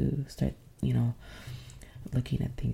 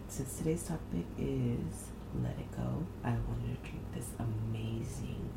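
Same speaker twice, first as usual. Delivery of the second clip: hushed whisper so nobody wakes; breathy early-morning whisper; library whisper; 5 dB quieter than usual. Real, not acted. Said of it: "I am whispering because".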